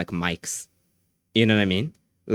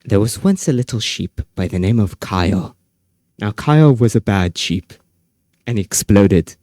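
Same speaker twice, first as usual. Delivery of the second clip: mock bedtime story; 2 semitones lower, 8 dB louder than usual. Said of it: "I feel like reading bedtime stories".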